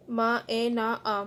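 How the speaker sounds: each sound of "मा, ए, ना, आ" said separately; "मा, ए, ना, आ" as separate, measured syllables; broken into parts. Shown as a demonstration. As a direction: spell out "मा, ए, ना, आ" piece by piece. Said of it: "ये word लोग अलग-अलग करके भी दिखाया".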